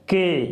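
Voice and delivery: के said short and clear; model syllable. Shown as a demonstration. Teacher to students, demonstrating के. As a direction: sound out के. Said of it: "इसका sound होगा".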